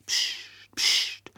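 whispered shushing; voiceless warning hiss; hushing. Acted. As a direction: hush them with a quick whisper. Woman hushes the colonel.

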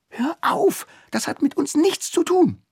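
high indignant hurt protest; indignant retort. Acted. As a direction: cut him off, stung. Stung retort in quarrel.

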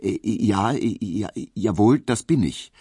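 nervous stammer, halting and flustered. A narrator's reading. Emil stammers back at the summons man, flustered and halting. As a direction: trip over the words, caught off guard. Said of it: "stotterte Emil Kubinke".

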